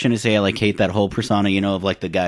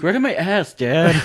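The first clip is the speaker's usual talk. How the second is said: movie brother impression; 8 semitones higher, slower than usual. Imitating the steroid-taking brother from the movie, silly high voice.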